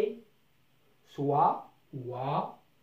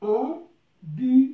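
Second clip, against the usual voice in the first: "Ambulance" higher, louder and very slow; slow emphatic model; 5 semitones higher, 6 dB louder, much slower than usual. Shown as a demonstration. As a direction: hold up "Ambulance" slowly and loudly for the class. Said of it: "نلاحظ هذه الكلمة".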